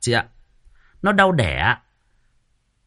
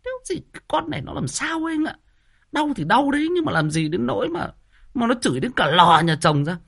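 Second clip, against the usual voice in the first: frowning disapproval; 9 semitones higher than usual. Retold or imitated. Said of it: "vợ em còn cau mày bảo".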